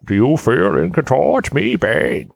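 put-on slow, drawling gypsy accent as Bane. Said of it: "He went with a gypsy accent".

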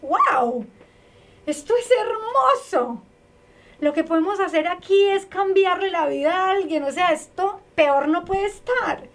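rally the dismayed coworkers with joy; enthusiastic pep talk. Retold or imitated. Cheering on coworkers facing a filthy house, delighted. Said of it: "les dije".

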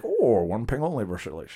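mock Scottish film-star voice with slurred s; lightly put-on slushy Connery line; Sean Connery. Fan practicing a favorite movie line, impression. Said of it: "I was practicing today".

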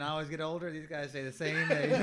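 Matthew McConaughey impression. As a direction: do the lazy Dazed and Confused line. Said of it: "good Matthew McConaughey".

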